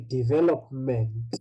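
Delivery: development ending on a plain t; careful singular development, no s after the t; no final S. Shown as a demonstration. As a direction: stop development at the t. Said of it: "when there's no S".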